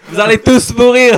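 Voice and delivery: loud, laughing villain threats; unhinged villain. Pretend. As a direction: gloat like a movie villain. Villain voice after naming Ronan.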